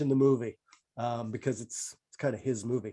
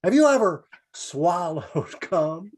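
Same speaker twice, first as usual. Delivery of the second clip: a hint of Benny, slowed, laughing through; half-laughing mock Benny; Jack Benny impression; 3 semitones higher, slower than usual.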